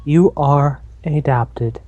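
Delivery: lightly voiced cold robot AI, slow; a hint of a deadpan computer voice, drawn out; GLaDOS impression. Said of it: "I do not sound like GLaDOS at all".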